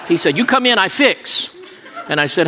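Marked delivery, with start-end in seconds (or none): 0.4-1.5 higher-pitched mock East Asian accent; put-on East Asian accent, pitched up. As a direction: imitate a masseur in broken East Asian-accented English. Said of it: "I'm not making fun of Orientals".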